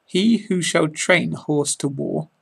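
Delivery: measured poetic recitation with pauses; poem reading. Acted. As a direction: read it aloud like a favourite poem. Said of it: "I'm going to do a reading of William Blake's poem".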